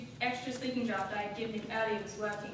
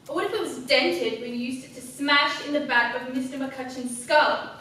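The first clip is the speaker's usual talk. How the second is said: mounting accusation; 3 dB louder than usual. Acted. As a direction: press the accusation harder until the last word bursts out. Acted accusation building to violent climax.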